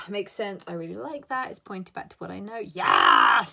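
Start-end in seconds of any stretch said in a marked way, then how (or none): 2.6-3.5 mock deep voice. Mock deep reply to viewer.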